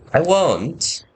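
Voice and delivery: put-on high, swooping kid voice; eager child. Child promising his Da, eager high voice. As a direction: answer like an earnest youngster.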